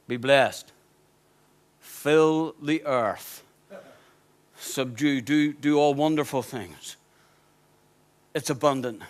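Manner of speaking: self-mocking movie-God impression; Charlton Heston God. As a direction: boom out creation like an old Bible epic. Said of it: "he talks like this, Charlton Heston, I can't do it".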